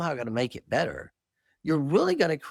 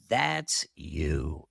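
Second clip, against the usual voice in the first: voice of Jesus; 12 semitones lower than usual. Retold or imitated. Jesus in a vision tells the speaker, low and gentle. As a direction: say it gently as a final verdict.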